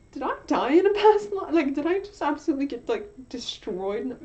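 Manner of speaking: mock panic at a grim past life; retold alarm. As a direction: ask it with sudden alarm. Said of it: "I was like".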